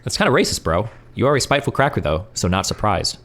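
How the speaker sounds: lightly bright, mocking doxer read; a hint of a cheery troll; cheerful doxer voice. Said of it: "the cheerful voice".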